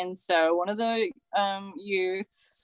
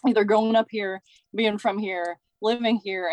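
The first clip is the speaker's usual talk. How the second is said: teary voice. Real, not acted. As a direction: voice tight with emotion. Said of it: "I might get a little teary-eyed".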